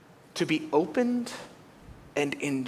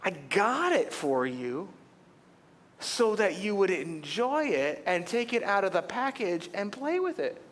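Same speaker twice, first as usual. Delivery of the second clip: inner exasperation; 3 semitones higher than usual. Retold or imitated. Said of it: "in my head I'm going".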